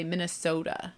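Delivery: "Minnesota" with a Northern long O; lightly Northern "Minnesota"; Northern Minnesota accent. Shown as a demonstration. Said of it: "don't I sound so Northern when I say that".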